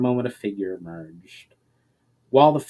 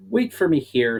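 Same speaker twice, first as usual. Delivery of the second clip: loud; 3 semitones higher, 4 dB louder than usual. Acted. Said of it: "said Valinar loudly".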